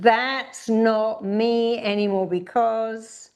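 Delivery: leaning hard on not; shouted affirmation. Shown as a demonstration. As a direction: proclaim it slowly and firmly. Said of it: "really shout out with it".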